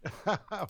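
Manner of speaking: short breathy chuckle through the nose; soft laugh. Real, not acted. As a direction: let a small laugh slip out. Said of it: "You see, Dave's laughing".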